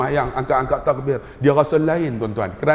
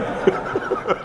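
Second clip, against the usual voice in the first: breathy high-pitched laugh; high airy laugh; 5 dB quieter than usual. Real, not acted. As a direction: let out a high airy giggle. Laughs at own joke.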